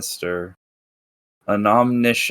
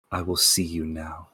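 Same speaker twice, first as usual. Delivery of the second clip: dopey cartoon bellow; 5 semitones lower, 8 dB quieter than usual. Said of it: "a deep voice rumbling through a storm".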